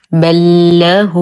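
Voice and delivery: very slow recited بل له as one held ل; merged doubled lam. Shown as a demonstration. Teacher modelling idgham, slow بل له with doubled lam. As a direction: chant بل له "bal-lahuu", drawn out. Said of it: "ننطقهما وكأنهما حرف واحد مشدد".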